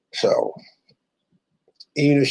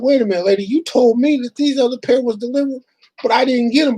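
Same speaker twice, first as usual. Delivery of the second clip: retold complaint; 11 semitones higher than usual. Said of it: "And I'm like".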